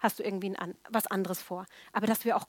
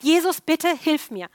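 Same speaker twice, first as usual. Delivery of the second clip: pleading cry; 6 semitones higher, 6 dB louder, slower than usual. Acted. Woman pleading with Jesus.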